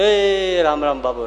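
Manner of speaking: drawn-out call to someone leaving; calling out goodbye. Acted. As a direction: stretch the greeting and call it out. Parting greeting called out.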